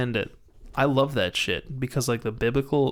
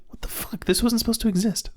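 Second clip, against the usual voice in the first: high, stunned outrage; shocked disbelief; 7 semitones higher than usual. Pretend. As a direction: blurt it out, appalled. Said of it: "I'd be like".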